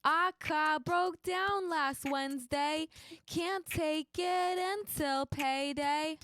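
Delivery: put-on sung in a New York accent. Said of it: "do a song in a New York accent".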